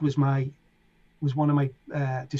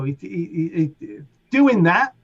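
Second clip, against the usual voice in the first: mimicking Sasha; 3 semitones higher, 4 dB louder, slower than usual. Mimicking Sasha's habit to listener.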